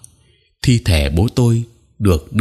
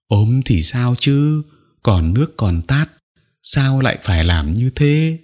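tearful lament; 4 semitones higher than usual. Acted. Mother cries in grief.

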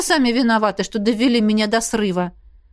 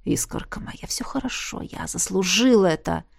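weak whisper; 4 dB quieter than usual. Acted. Beaten lover whispers to her.

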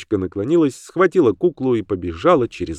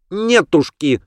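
put-on defiant child refusal; 8 semitones higher, 4 dB louder, slower than usual. Girl refuses.

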